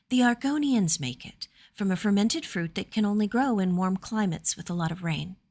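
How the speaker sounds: lightly voiced lady sharing a curiosity; lady explaining a drink to her guest; young noblewoman. Amelia explains chocolate, higher voice.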